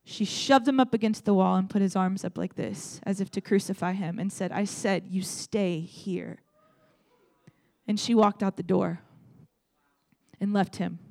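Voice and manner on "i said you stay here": mad command. Retold or imitated. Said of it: "she got so mad".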